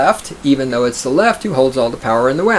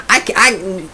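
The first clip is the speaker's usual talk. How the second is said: higher whiny mock voice, last line squeaking high; mocking whiny gender activist; 6 semitones higher, slower than usual. Streamer mocking gender identities, higher whiny mock voice. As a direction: whine out the list of labels. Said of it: "Gender identities".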